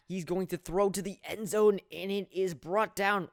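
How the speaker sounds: excited play-by-play. Real, not acted. Calling an end zone throw.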